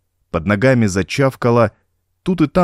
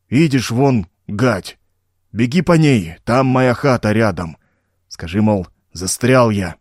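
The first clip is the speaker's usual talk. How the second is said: gurgling swamp voice. Acted. Bog creature speaks again.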